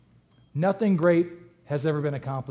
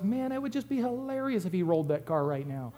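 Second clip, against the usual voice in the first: inner thought; 7 dB quieter than usual. Retold or imitated. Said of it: "what I thought was".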